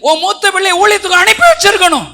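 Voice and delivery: high, loud rebuke from the pulpit; fiery preaching. Acted. Preacher scolding listeners for not sending their firstborn, loud and high.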